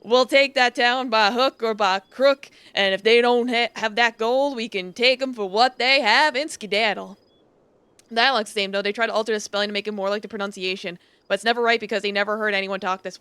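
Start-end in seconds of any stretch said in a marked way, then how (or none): 0.0-7.2 bold cowboy leader laying out the raid; rally the gang with swagger; outlaw boss. Acted. Gang leader's plan voiced.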